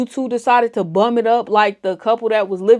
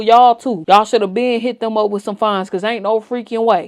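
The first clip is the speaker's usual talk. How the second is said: heated rant; 6 dB louder than usual. Real, not acted. Heated rant about authorities.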